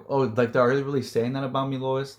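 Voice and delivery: a touch of quiet hurt, a little fast; softly wounded, taking it respectfully; hurt Superman. Retold or imitated. Superman, hurt by what others say to Lois, quietly sad. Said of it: "he'll be hurt".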